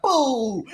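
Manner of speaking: drawn-out boom as sound effect; imitated explosion. Mimicking wrestlers describing an explosion, imitated boom. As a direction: act out a blast, half-laughing. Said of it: "and then an explosion happened".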